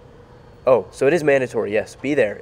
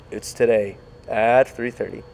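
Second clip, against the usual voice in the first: whispering. Real, not acted. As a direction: whisper the correction sheepishly. Whispered correction after mistake.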